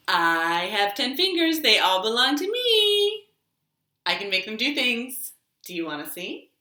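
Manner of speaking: rhythmic rhyme chanted for toddlers; finger rhyme. Acted. Librarian leading toddlers through a finger rhyme, sing-song.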